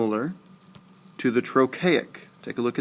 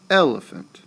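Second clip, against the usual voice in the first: Elephant with EL high and loud, then down; EL-e-phant, strong first beat, two weak; high start, falling; 4 semitones higher, 5 dB louder than usual. Shown as a demonstration. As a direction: hit EL and fall away through Elephant. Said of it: "It starts high and it goes down".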